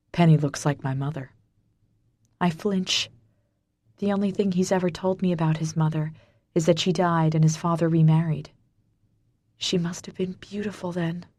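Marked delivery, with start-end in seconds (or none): 0.1-1.3 lightly lowered gravelly male voice; a hint of a rough low voice; low gravelly man. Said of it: "a low, gravelly voice". 9.6-11.2 soft, hushed words; whisper. Acted. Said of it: "I whisper".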